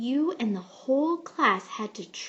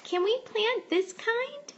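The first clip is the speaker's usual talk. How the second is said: eager question; 11 semitones higher, 4 dB louder than usual. A narrator's reading. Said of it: "I tugged on your shirt".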